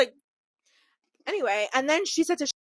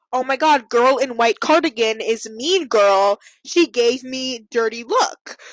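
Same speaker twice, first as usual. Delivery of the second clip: slow, broken English, imitating her; mock non-native English, slow and careful; broken English imitation; 6 dB louder than usual. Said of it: "our mutual friend and was like".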